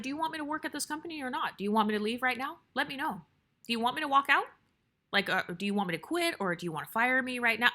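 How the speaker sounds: retold confrontation, question after question; direct and assertive. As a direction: press the boss for an answer, firmly. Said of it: "be that direct and assertive".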